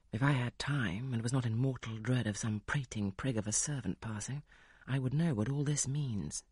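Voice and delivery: a hint of a stern lord; brooding master. Rochester presses tearful Jane.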